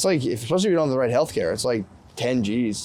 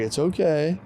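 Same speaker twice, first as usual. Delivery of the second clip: reassuring; 3 semitones higher, slower than usual. Retold or imitated. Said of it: "You have to be like".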